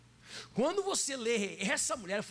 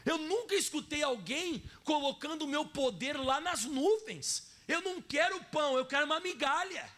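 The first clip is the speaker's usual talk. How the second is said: much higher, astonished voice for Jesus; amazed Jesus; 5 semitones higher than usual. Retold or imitated. Preacher voicing Jesus amazed by the woman's reply, much higher. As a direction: let Jesus sound stunned by what he hears. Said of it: "como se ele dissesse em outras palavras".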